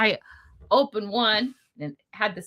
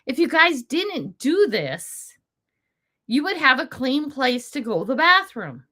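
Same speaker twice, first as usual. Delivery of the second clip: a mild scolding lecture, a touch higher; lecturing; 4 semitones higher than usual. Retold or imitated. Vlogger imagining a lecture to the homeless and addicts, mild scold. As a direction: lay down the law to them. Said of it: "put 'em together and say".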